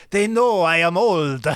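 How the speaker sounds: put-on frail old man, slow and creaky. Shown as a demonstration. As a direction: play a very old man talking to Eddie. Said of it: "give us a taste of your old man voice".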